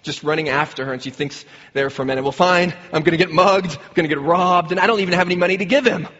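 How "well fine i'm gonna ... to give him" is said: retold exasperated thought. Wife bracing to be mugged with nothing to give, retold exasperation. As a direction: lightly act out an exasperated worrier.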